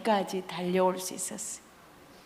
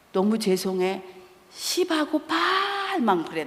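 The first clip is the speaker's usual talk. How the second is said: mimicked rude student. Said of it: "막 이래".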